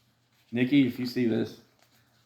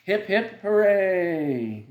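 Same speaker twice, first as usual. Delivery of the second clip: cheering; 6 semitones higher, 4 dB louder, much slower than usual. Acted. Crowd cheering in story.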